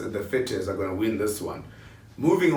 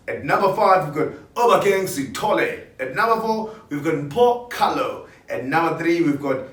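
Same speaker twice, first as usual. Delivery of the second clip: higher, punchy radio DJ countdown; radio presenter voice; 3 semitones higher than usual. Shown as a demonstration. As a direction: hype each name like on air. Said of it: "I'm gonna speak like a radio presenter".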